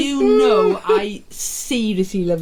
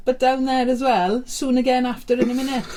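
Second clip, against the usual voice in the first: put-on Welsh accent. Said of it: "I can't do a Welsh accent".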